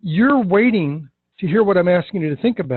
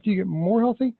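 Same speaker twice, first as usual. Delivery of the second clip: "more" stretched, "healthy" ending it like a question; standalone question; 3 semitones higher, 4 dB quieter than usual. Shown as a demonstration. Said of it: "as if that is a single question by itself".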